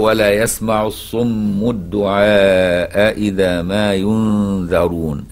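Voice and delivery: slow measured tajweed chant; Quran recitation. Shown as a demonstration. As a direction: draw out each word like a recitation. Teacher recites verse slowly. (تلاوة مرتلة بطيئة)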